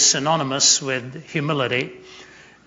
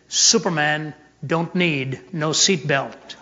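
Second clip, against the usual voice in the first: slow swaggering boast in a different voice; cocky boast; slower than usual. Retold or imitated. Ali boasting to the flight attendant, slow swagger. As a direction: lean back and brag, slowly.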